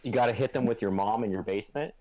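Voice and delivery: reverby room sound; big hall echo. Real, not acted. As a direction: voice echoing in a living room. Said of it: "Why did you sound so reverby?".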